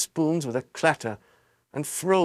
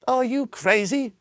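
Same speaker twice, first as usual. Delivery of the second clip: high, indignant woman's shout; 10 semitones higher than usual. A narrator's reading. A woman shouts at the tall man, high and indignant. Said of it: "shouted a woman".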